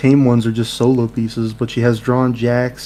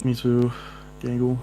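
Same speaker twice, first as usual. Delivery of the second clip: odd put-on character voice; weird put-on voice; 7 dB quieter than usual. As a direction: say it in a strange put-on voice. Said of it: "why do you sound like that?".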